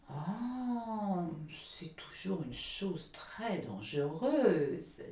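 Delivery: slow, drawn-out duck; a motherly duck warning slowly. Acted.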